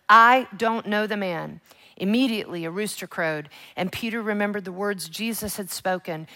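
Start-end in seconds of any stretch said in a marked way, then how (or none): 0.1-1.6 slow, forceful mock oath; swearing denial. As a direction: deny it loudly, word by word. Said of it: "started to curse and to swear with an oath".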